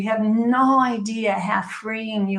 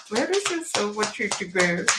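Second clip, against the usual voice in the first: English accent repeated; 4 dB quieter than usual. Real, not acted. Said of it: "I started speaking like an English person".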